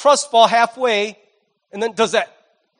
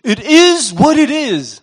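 resigned shrug; 4 semitones higher, 5 dB louder, slower than usual. Shown as a demonstration. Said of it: "ultimate American statement of hopelessness".

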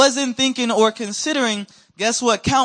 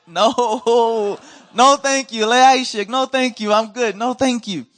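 higher, louder, laughing no-thank-you; nervous laughing refusal; 4 semitones higher, 4 dB louder, slower than usual. Retold or imitated. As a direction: squirm out of it with a laugh. Nervous refusal of shared popsicle.

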